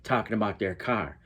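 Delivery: white Chicagoan "car" with the r fully sounded; white Chicago accent. Shown as a demonstration. Mocking how others think Black Chicagoans talk, white Chicago accent. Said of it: "They're not talking like, talking like this".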